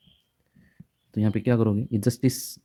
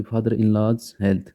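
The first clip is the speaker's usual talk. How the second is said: slow example; much slower than usual. Shown as a demonstration. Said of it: "तो इसमें कहाँ लगेगा?".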